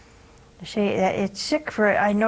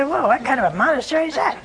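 quick, higher gasp of "Whoa"; mock surprise; 5 semitones higher, 4 dB louder, faster than usual. Stranger gawking at a nun's swollen eye, quick mock surprise. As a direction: play a gawking stranger, louder and fast. Imagined onlookers seeing black eye.

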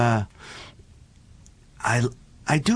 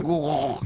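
camel groan; 3 semitones higher than usual. Acted. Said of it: "and the camel went".

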